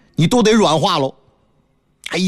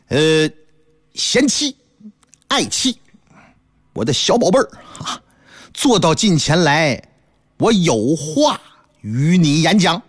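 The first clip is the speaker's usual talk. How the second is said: husband sweet-talking; 2 semitones lower than usual. Acted. Husband coaxes wife before bad news, wheedling.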